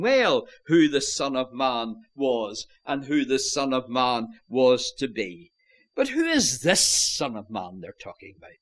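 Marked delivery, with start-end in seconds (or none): 6.0-7.8 "this" lengthened with a long s; stress on THIS. Shown as a demonstration. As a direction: press on the word "this" as the point of the question. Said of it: "place the emphasis on that word".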